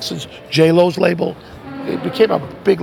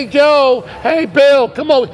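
higher and louder crowd chatter; 8 semitones higher, 6 dB louder, slower than usual. Retold or imitated. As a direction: call out to friends over the noise. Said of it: "everyone say".

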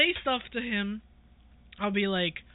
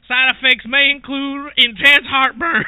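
mock disclaimer; 4 dB louder than usual. Parody drug ad disclaimer.

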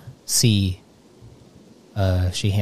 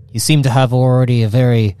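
lightly voiced Grunghill; 4 semitones higher, 7 dB louder than usual.

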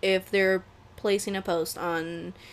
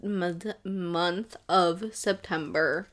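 slow self-correction; 2 semitones lower, much slower than usual. Real, not acted. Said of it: "Words. I can word".

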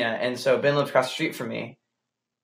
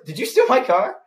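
high mock Boston question; comic Boston accent, pitched up; 8 semitones higher than usual. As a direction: accuse someone in put-on Boston. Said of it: "That's not a good Boston accent".

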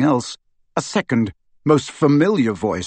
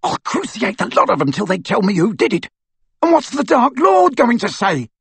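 shrieking; 9 semitones higher than usual. Acted. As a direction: panic climbing into a shriek. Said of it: "he shrieked".

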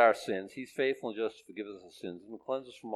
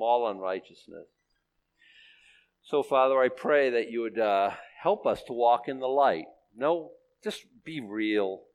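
earnest, louder prayer to close the sermon; closing prayer; 4 dB louder than usual. Acted. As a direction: pray it over the congregation.

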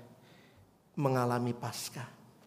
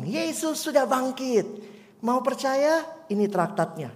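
put-on child evangelist; 9 semitones higher than usual. Pastor imitates the girl offering a tract, lightly childlike. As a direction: play a shy girl handing out tracts.

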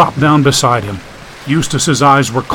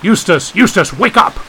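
shouting; 5 semitones higher, 3 dB louder than usual. Acted. Shaking unconscious friend.

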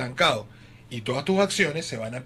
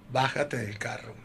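cold quiet order; 7 semitones lower, 10 dB quieter, slower than usual. Retold or imitated. Wife orders him out of car.

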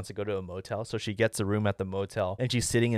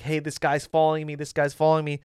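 higher, mildly flustered retold plea; 4 semitones higher, 4 dB louder than usual. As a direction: imitate a flustered caller to the police. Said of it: "she's, like, all flustered".

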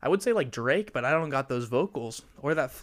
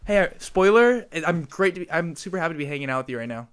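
mock cheerful greeting; 2 semitones higher than usual. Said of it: "are we just saying spoiler about everything?".

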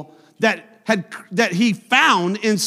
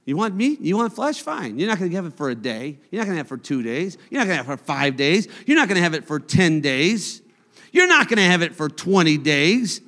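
mock-sarcastic God; faster than usual. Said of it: "something I would do".

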